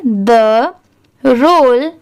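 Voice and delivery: word by word, pausing after each; slow model reading for learners to echo; one isolated word at a time; repeat-after-me reading. Shown as a demonstration. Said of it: "आप मेरे बाद ज़रूर बोलिए".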